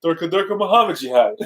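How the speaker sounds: genie voice. Pretend. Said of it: "why did you say it like the genie".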